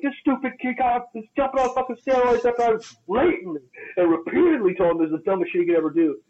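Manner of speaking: high, fast outraged complaint; exasperated rant. Retold or imitated. Trainer ranting to Big Dave about the kid, high and exasperated. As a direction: rattle it off, fed up. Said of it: "And I was like".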